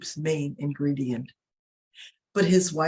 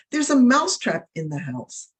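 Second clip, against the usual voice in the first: higher and louder, an alarmed cry; proclaimed warning; 6 semitones higher, 4 dB louder than usual. A narrator's reading. Mouse warns the farmyard of the trap, raised alarmed call. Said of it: "the mouse proclaimed the warning".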